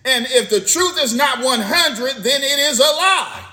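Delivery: sermon voice climbing in pitch at the close; preaching. Real, not acted. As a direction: build up to the damning point. Preaching, building to a point.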